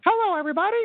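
high, grating hello. Pretend. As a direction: squawk it out, high and harsh. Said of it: "He's gonna sound a little more grating".

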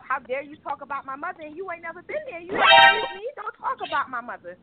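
imitating an angry teen, rising to a yell; hammed-up teenage protest; angry daughter snapping at father; mock outburst. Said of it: "it used to piss me off".

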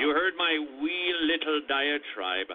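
put-on light playful Irish accent; a hint of Irish lilt, for Saint Patrick. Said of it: "That's my Irish accent coming through".

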